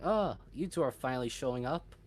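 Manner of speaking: shrill cat voice. Acted. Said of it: "small, shrill cat voice".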